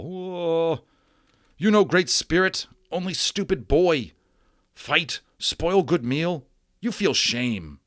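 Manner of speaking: high, loud broken-English scolding, slowing at the end; a small furious warrior shaming a boy; high indignant tribal warrior voice, dragging out the last words; angry Little Bear. Acted.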